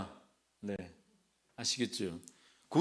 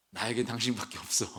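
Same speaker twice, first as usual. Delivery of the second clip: tender line; 5 semitones lower, 6 dB quieter than usual. Pretend. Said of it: "뭐 이런 말 던져야겠지".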